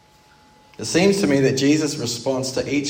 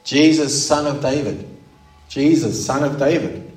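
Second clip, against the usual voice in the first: mildly raised plea, punched on "Jesus"; crying out; 2 semitones higher than usual. Acted. Preacher acting Bartimaeus begging for mercy, mild crying out. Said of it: "His focus is crying out to Jesus".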